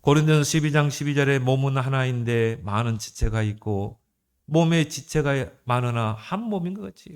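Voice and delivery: even, measured Bible recitation; scripture reading. Acted. Preacher citing Corinthians to the congregation, formal scripture reading. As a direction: read the verse out formally to the congregation.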